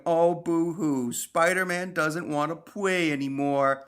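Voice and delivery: slow, sulky boo-hoo; hammed-up mild pouting; mock disappointment. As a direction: play at being let down like a child. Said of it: "reacting all disappointed like".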